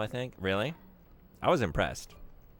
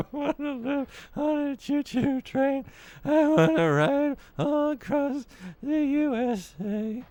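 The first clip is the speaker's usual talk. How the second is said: much higher and slower, a dreamy goofy voice; silly character voice; 7 dB louder, slower than usual. Acted. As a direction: croon it like a wide-eyed cartoon kid. Sings a silly character line.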